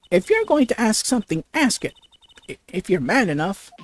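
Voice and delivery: a hint of a tough matriarch, quick then dropping; husky-voiced woman. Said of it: "the voice I did with".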